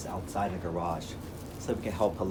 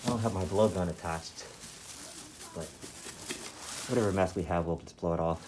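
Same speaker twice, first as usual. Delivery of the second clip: muffled behind a face mask; through a face mask. Real, not acted. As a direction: talk through a dust mask. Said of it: "I'm wearing a mask right now".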